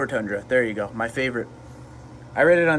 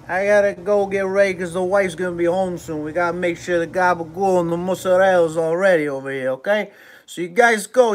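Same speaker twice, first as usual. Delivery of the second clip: put-on New York accent; 4 semitones higher than usual. Streamer signing off to viewers in a New York accent. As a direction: sign off like a Jersey deli guy in a thick New York accent. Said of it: "I'll do this in, in a New York then".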